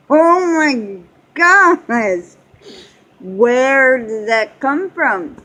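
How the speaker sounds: high, slow and loud, stunned by the noise; drawn-out shocked oh my gosh; shocked gasp. Retold or imitated. Mom startled by her son's long fart, loud and slow. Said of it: "I'm like".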